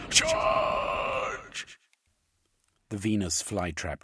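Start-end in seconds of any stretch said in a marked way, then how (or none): 0.1-1.8 very high, loud battle cry; shouted command. A narrator's reading. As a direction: send the animals in with one cry. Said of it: "The overseer shouted".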